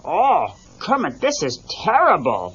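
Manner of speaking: worried comic bear; mild alarm in bear voice; Fozzie alarmed. Acted. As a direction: fret over the bad news as Fozzie. Fozzie cries in story.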